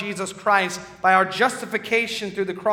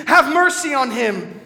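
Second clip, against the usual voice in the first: raised, pleading cry, louder and higher; anguished call for mercy; 8 semitones higher, 9 dB louder than usual. Acted. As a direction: plead over the noise of the crucifixion. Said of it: "I cried as they nailed".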